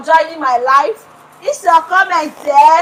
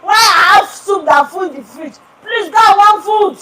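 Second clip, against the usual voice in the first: loud scolding husband; husband shouting; 5 semitones higher, 4 dB louder than usual. Retold or imitated. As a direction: shout it back at her. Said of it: "He say".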